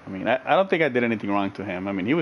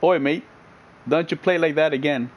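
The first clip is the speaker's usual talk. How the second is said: put-on Australian accent, higher pitched; mock-Australian telling-off; Aussie accent; 3 semitones higher than usual. Shown as a demonstration. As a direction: scold a mate in playful Aussie. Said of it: "I can't even do Aussie".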